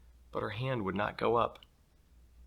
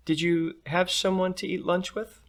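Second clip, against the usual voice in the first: mom; 10 semitones higher than usual. Acted. Mom asks daughter.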